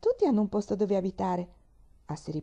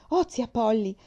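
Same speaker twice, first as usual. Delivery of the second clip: calling out proudly, louder; triumphant; 4 semitones higher, 5 dB louder than usual. Acted. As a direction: announce the prize. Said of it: "disse trionfante". (trionfante, a voce alta)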